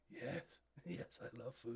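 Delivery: lightly voiced beast, mostly without tone; husky whispered delight with a laugh; a hint of eager monster; Minotaur voice. Minotaur answers, voice changed.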